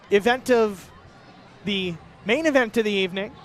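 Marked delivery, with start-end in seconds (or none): 1.6-3.3 booming fight night announcer voice; UFC announcer. Shown as a demonstration. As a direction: announce it like a UFC ring call. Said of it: "I sound like a U F C announcer".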